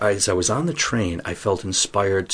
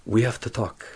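light mock French accent; lightly accented French English; 3 semitones higher than usual. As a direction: imitate a French girlfriend, accent lightly put on. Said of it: "That's my best French accent".

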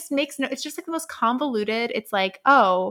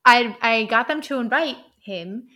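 imitating a chipper Frampton; excited Frampton; 3 dB louder than usual. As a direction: burst in with good news. Frampton voiced, cheery announcement.

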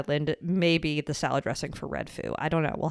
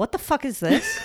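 disgusted surprise; 9 semitones higher than usual. Real, not acted. Shocked reaction.

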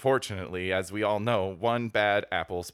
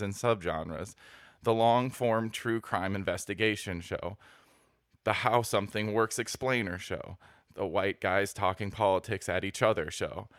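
reading aloud. Acted. Reads review aloud.

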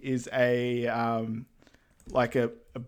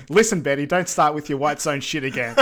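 mock angry husband; 5 dB louder than usual. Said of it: "It's like".

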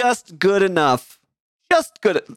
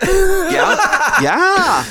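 high, louder questioning Canadian yeah; Canadian accent; 13 semitones higher, 5 dB louder than usual. Shown as a demonstration. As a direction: push the Canadian uptalk way up high. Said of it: "Everything has to be a question".

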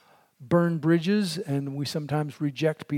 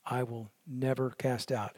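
solemn promise; 4 dB quieter than usual. Acted. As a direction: read it as a gentle vow. Quoting Jesus' promise, slow and fading.

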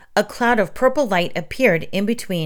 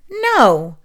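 emphatic no; 5 semitones higher, 5 dB louder than usual. A narrator's reading. Agatha dismisses the idea.

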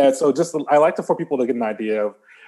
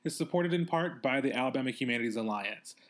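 measured podcast announcement read; scripted show intro; sponsor read; 12 dB quieter than usual. Acted. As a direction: read the credit and disclaimer neatly.

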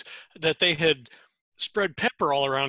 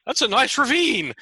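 casual unimpressed; 10 semitones higher, 4 dB louder than usual. Retold or imitated. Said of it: "I'm like".

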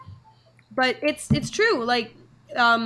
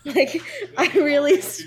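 laughing; 3 semitones higher than usual. Real, not acted. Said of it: "I really struggle with it".

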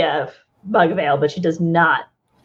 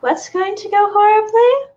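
breathy voice; 12 semitones higher, 5 dB louder than usual. Acted. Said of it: "a breathy voice from the doorway".

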